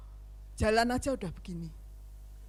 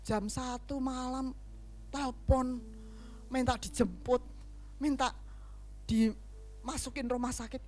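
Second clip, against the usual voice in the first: weary grumbling; 6 dB quieter than usual. Acted. Pastor grumbling at a late-night phone call, weary. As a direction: drag it out like someone woken at night.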